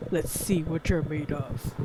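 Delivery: slow low rasping menace; creepy hoarse voice. Shown as a demonstration. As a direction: growl it slowly like a ghost. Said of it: "I'm trying to read a creepy's voice".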